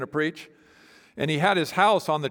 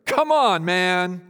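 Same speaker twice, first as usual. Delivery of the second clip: sarcastic; 4 dB louder, much slower than usual. Shown as a demonstration. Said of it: "Some people think he's sarcastic here".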